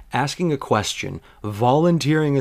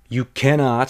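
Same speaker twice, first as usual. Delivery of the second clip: a hint of stern certainty, cannot leaned on; with authority. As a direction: state it like an expert would. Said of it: "she says with authority and experience".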